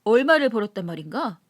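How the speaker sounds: put-on a drunk rickshaw man showing off his earnings; drunk laborer boasting. Drunk Kim boasting over drinks. (술 취해 떠벌리는 인력거꾼)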